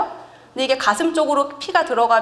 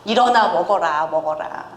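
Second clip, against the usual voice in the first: coaxing angel; 5 semitones lower than usual. Retold or imitated. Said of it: "이렇게 달래죠".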